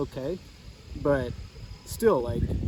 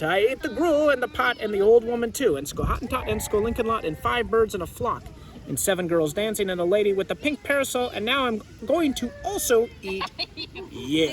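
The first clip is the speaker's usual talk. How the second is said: greedy cat; 4 semitones higher than usual. Acted. Cat boasts what it ate.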